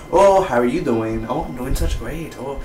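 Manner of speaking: lightly imitated Fargo accent. Shown as a demonstration. Reviewer demonstrating a coveted voice, mock Fargo accent. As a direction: chat politely in a put-on Fargo accent. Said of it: "I wish I had this type of voice".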